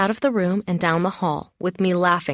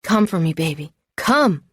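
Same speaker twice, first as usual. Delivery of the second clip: yelling. Acted. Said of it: "he yells".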